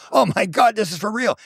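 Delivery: high-pitched astonished quote; imitating someone suddenly convinced; retold amazement. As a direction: act out a stunned realization. Retold man amazed at sighting.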